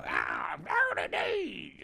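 put-on rough old bar regular; gruff bar guy voice. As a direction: growl it like a pub singer. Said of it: "he just looks like a guy from a bar".

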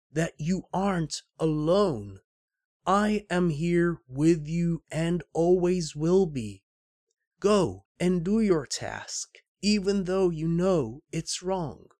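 put-on solemn old mentor. Old man tells Rick to do his task, lightly voiced mentor.

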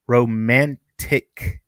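romantic drawn out slowly, syllable by syllable; slow, over-careful "romantic"; careful repeat. Real, not acted. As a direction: stretch "romantic" into separate, deliberate pieces. Repeats the stumbled word carefully.

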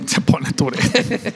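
slow, drawn-out "Se pone Tourette"; mocking slow echo. A friend slowly echoes the joke to tease. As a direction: stretch each word, teasing.

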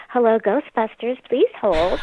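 a hint of a Brooklyn receptionist answering the phone. Brooklyn accent for the cartoon receptionist answering the phone. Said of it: "It was just like that".

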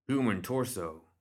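slow matter-of-fact statement; flatly stated. Acted. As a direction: say it like a plain report. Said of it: "Crockett stated".

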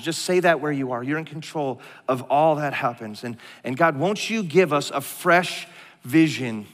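earnest congregational prayer, phrases set apart by pauses; leading prayer. Real, not acted. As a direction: plead to God on behalf of the room, then settle into the amen.

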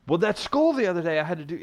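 put-on whiny kid making excuses; mock kid excuse. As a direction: play the kid wriggling out of it. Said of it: "they were like".

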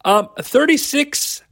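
slow, high, fighting back laughter; trying not to laugh. Real, not acted. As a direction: laugh breaking through the words. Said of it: "I'm trying not to laugh".

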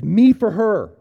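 loud, high pleading cry; retold begging cry. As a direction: beg the chief outright. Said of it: "and he begs".

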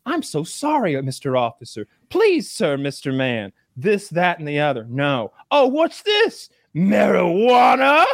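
high, whimpering mock plea; hammed-up begging woman; mock pleading. Guest imitating the arrested woman begging the officer, high and whimpering.

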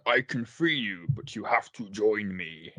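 slow, lightly voiced dark lord; a hint of a menacing villain offering a deal; half-hearted Undertaker-Vader blend; Undertaker or Vader impression. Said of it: "Is that The Undertaker or Darth Vader?".

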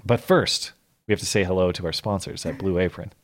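lightly hammed sponsor plug; mock ad read. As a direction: play it like a podcast ad break. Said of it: "Now we're doing what Ben does".

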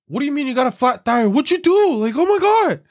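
high, loud frantic mock panic; panicked girlfriend. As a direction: squeal it like a panicking partner. Girlfriend panicking over flat tire.

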